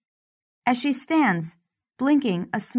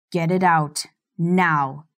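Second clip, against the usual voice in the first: cold command; 3 semitones lower than usual. Acted. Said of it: "Stephenson's cold voice".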